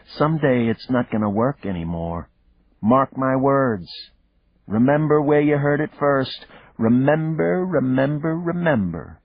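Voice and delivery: put-on a wounded kid warning her dad; hurt little girl. A narrator's reading. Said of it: "crackle of hurt in her voice".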